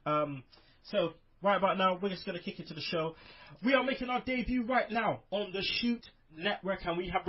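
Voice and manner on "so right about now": normal talking voice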